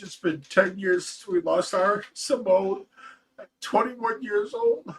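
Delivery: reading through tears. Real, not acted. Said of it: "I'm done with the tears".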